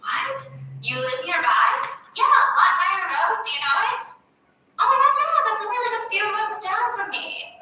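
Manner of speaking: high, loud, excited squeal of disbelief; freaking out. Retold or imitated. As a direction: gush like she can't believe her luck. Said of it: "So Noelle's freaking out".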